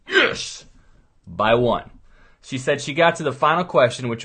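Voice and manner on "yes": sudden high yelp of joy; a leap up in pitch on yes; excited cheer. Pretend. Dad cheering his daughter's pass, high joyful yelp.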